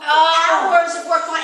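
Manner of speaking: slow, loud despair; devastated. Real, not acted. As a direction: drag out the loss, crushed. Despair over lost work.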